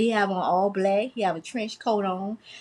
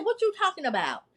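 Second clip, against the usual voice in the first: retold disbelief; 7 semitones higher, 4 dB quieter than usual. Retells disbelieving reply to neighbour.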